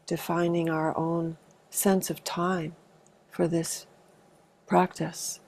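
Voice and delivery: calm, unhurried meditation guidance with long pauses; spacious meditation leader's delivery; guided meditation. Acted. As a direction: gently guide a group into arriving, leaving space between phrases. Leads an arriving meditation.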